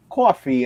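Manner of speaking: coffee said "cwoffee" with a rounded W glide. Shown as a demonstration. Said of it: "it's almost got a W in there".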